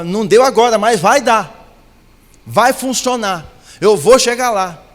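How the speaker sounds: preacher leading a bold confession of faith; confident declaration. Shown as a demonstration. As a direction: shout your victory over the setback.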